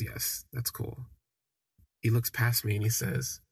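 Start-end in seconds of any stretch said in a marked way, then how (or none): 0.0-1.1 slow, much softer, flatly sarcastic; unimpressed, dragging each word; dry eye-roll. Retold or imitated. Boyfriend's father mocking the reply with a dry, slow sarcasm. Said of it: "rolls his eyes and he says".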